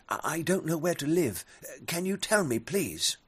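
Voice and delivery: high, fast, stammering bat; timid bat. Acted. Bat pleads with eagle.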